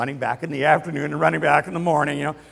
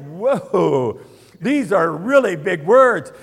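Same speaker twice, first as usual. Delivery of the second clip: amazed whoa; 4 semitones higher, 9 dB louder, much slower than usual. Real, not acted. Reacting to David's big words.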